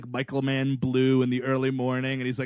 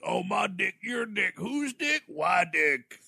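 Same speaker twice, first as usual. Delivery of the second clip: mocking rising voice; 6 semitones higher, slower than usual. Mocking the movie's dialogue.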